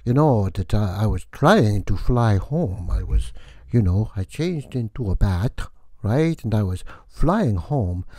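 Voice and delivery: hammy Transylvanian count, drawn out; vampire count voice. Acted. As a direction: play the theatrical vampire host welcoming guests. Count tells bat story.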